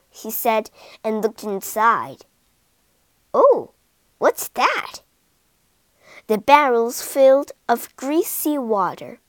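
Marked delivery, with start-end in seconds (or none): 3.3-5.0 curious higher "oh, what's that"; surprised. Acted. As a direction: discover something odd. King surprised at barrel.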